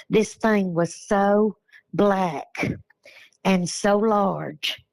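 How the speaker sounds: slow, shaking voice, still rattled. Real, not acted. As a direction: let the voice tremble as you remember. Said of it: "I'm sorry, my voice is shaking".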